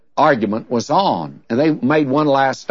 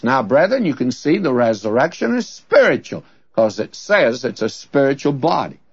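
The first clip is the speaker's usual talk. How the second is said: retold argument leaning on SPIRITUAL; stress on SPIRITUAL. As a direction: lean on "spiritual" as the scholar did. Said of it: "put the great emphasis on the spiritual".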